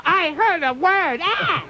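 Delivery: high, slow prim gasp; mock shocked listener. Offended listener hearing the word, high mock shriek. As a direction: play a scandalised old listener. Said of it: "go crazy".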